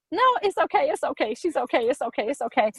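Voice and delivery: lightly mimicked pastor, starting high and settling; hurried pastor reassurance. Pastor calming everyone as the girl fights, reassuring. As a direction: start high, then ease down as you reassure.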